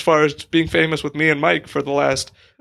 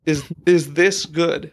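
stick in mouth; slower than usual. Pretend. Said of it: "just have the stick in your mouth".

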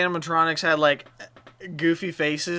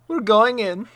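dramatic; 6 semitones higher, 4 dB louder, slower than usual. Acted. Character announces dramatic entry.

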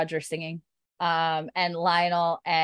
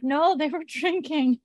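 high, slowed words cracking up; breaking into laughter; 9 semitones higher, slower than usual. Real, not acted. Podcaster quoting a guard's excuse, cracking up laughing. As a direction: start the quote, lose it laughing.

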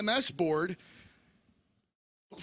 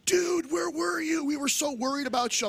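raised, exclaiming buddy voice; worried bros; 8 semitones higher than usual. Retold or imitated. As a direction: imitate frantic friends finding you. Acting out worried friends greeting him.

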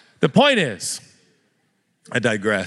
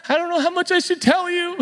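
evasive. Retold or imitated. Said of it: "I was like".

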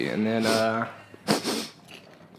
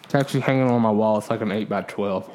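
talking while chewing; words around a mouthful of pork rinds; mouth full. Real, not acted. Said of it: "Sorry, I'm eating pork rinds".

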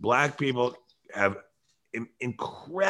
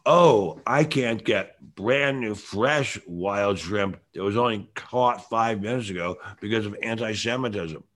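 mock complaint. Host pretends to complain about getting fresh shrimp, mock complaint. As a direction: pretend to moan, stretching the words out slowly. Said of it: "I could complain and say".

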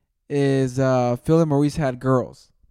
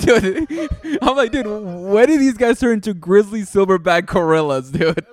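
laughing; 4 semitones higher than usual. Real, not acted. Laughing at his own story.

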